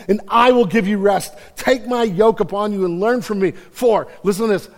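loud, high, building sermon voice; preacher building to a climax; soaring preaching. Acted. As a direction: lift it to a full-throated call. Preaching rises again.

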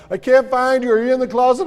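mock-puzzled daddy calling out; playful dad seeking. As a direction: pretend you can't find them, hamming it up. Dad playing along with hiding twins.

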